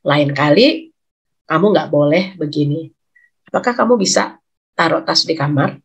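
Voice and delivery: low, calm, firm disappointed mother; low calm firmness. Shown as a demonstration. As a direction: demo the right way: steady and low. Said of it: "Marahlah dengan nada suara rendah". (ibu menegur dengan suara rendah dan tenang)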